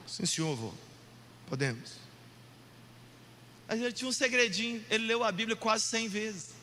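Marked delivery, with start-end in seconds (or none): 0.1-1.9 low, subdued, obedient reply; small, deflated voice; meek grandson. Acted. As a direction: answer grandpa sheepishly and softly. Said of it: "eu ficava assim".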